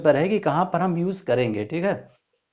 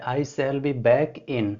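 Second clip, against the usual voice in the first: slow dictation; much slower than usual. Shown as a demonstration. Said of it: "कौन सा यहाँ पर article use होगा".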